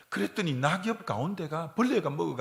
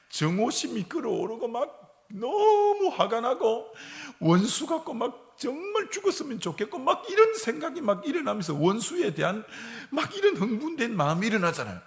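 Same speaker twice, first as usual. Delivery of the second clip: higher, louder worked-up rush with laughs; preacher acts out rage at the one who hurt, higher and louder; rising agitation; 8 semitones higher, 3 dB louder than usual. Acted.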